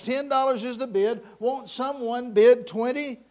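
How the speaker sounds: loud, high call for bids; auctioneer's appeal. Acted.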